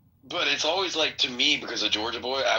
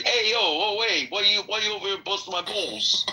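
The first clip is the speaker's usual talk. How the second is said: put-on Bronx accent; 6 semitones higher than usual. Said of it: "when I think of Bronx".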